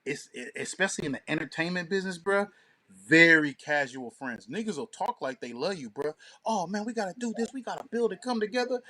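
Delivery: ordinary talk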